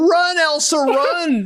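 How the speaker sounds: high-pitched mock yell; retold yell. Repeating the cry to the runaway cow, mock yelling. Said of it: "I yell".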